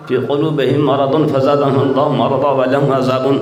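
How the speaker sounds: quick, chanted Quran verse read; Quran recitation. Acted. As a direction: recite the Arabic verse in a steady chant, briskly. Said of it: "قرآن نے فرمائی دیا". (قرآن کی تلاوت کا انداز)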